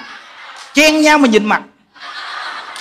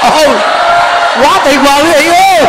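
loud, high-pitched exclamation to the crowd; big rousing shout to an audience; excited cheer; 5 semitones higher, 5 dB louder than usual. Real, not acted. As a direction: call out in delighted praise.

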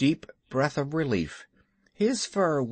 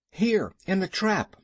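put-on higher-pitched boy calling from a trap; crying out; 6 semitones higher than usual. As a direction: call up for help, lightly acted. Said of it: "cried Mowgli".

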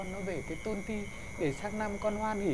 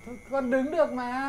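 whiny plea; 2 semitones higher, 5 dB louder than usual. Acted. Son-in-law refuses seat, whimpering.

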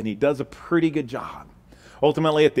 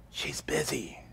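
put-on hushed little kid whisper; a child whispering into the phone; small child whispering; 2 semitones higher, 14 dB quieter, slower than usual. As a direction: whisper like a scared four-year-old. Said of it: "the whispering voice says".

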